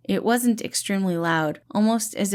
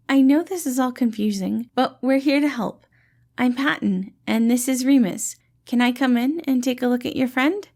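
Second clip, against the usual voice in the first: higher, louder friendly reassuring voice; gentle dad-like rescuer, pitched up and bright; cheerful caretaker Patton; 6 semitones higher, 4 dB louder than usual. Acted. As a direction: play the kind, upbeat helper calming a scared kid. Patton reassures scared borrowers.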